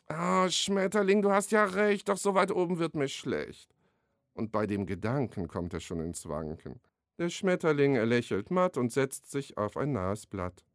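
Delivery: a measured, rhythmic rhyme reading; poem recital. Acted. Author recites his beaver and butterfly poem, rhythmic recital. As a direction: let the rhymes land, like reading to children.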